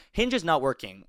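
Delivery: high-pitched, fairly animated read; lifted, perky reading; not serious enough. Real, not acted. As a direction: read it high and lively, too light for the question. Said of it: "a more serious tone".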